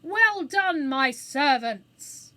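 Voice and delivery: high, booming proclamation heard all over; loud cry. A narrator's reading. Phoenix applauding its servants in the theatre, loud cry. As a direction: cry it out to fill a whole theatre. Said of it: "cried in a voice that could be heard all over".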